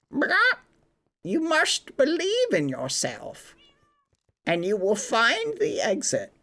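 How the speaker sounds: high, lightly voiced wise chicken giving a pep talk. The magical chicken encourages the trapped Septis, high chicken voice. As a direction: squeak it out like a magic chicken that believes in you. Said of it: "The chicken looks at Septis D and says".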